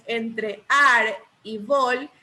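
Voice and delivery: "ar" and "vol" slowly isolated, "ar" drawn out; slow right down to offer "ar" and "vol" separately; syllables set apart. Shown as a demonstration. Teacher asking which syllable is stressed, "ar" and "vol" set apart slowly. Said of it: "creen que sea la sílaba tónica".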